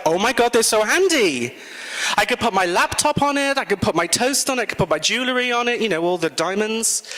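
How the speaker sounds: thrilled by how handy the trays turn out; rising giddy excitement, words tumbling out; excited delight. Retold or imitated. Delighted reaction to arriving trays.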